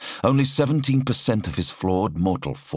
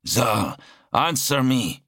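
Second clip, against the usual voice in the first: raised, urgent commanding call; 6 semitones higher, slower than usual. Acted. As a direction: call him sharply over the vox. Commander calling on the vox.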